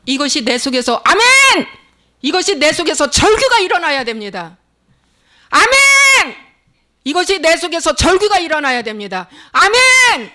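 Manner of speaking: high impassioned exhortation, shouted amens; rally the congregation to cry out; fervent high-pitched pulpit delivery; full-force preaching. Real, not acted.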